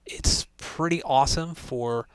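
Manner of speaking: mono gaming headset mic; chat headset mic. Real, not acted. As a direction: through cheap chat headset. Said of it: "test of the microphone on the HyperX Cloud Chat".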